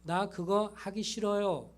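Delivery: slow, careful polite phrasing; the polite way to refuse; polite model sentence. Shown as a demonstration. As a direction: say it slowly as a model for a child. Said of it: "이렇게 잘 말해".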